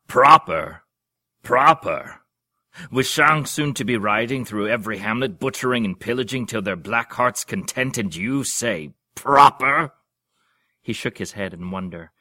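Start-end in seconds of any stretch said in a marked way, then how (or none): 0.1-9.9 huge, bellowed outrage, higher and louder; roaring. Acted. Old duke roaring at a prim duke, outraged. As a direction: roar the word back at him. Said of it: "swelled and roared".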